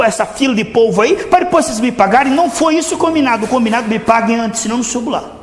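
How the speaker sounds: hammed-up outrage of a preacher who wants money first; indignant greedy preacher. The famous preacher demanding his fee before the service, in mock outrage.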